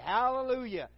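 loud, high shouted response; drawn-up cry of praise; congregational shout. Retold or imitated. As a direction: call it out like a crowd answering. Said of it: "they would say".

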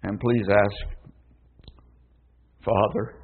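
put-on soft, pleading child; a lightly voiced sorry little girl; child begging mother for forgiveness, softly; sorrowful little voice. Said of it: "a sorrowful little voice said".

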